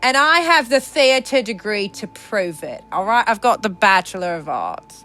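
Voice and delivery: grandly declaimed, hammed-up indignation; theatrical diva. Defending their long recording to a bot, theatrical diva. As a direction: declaim it like an affronted stage actress.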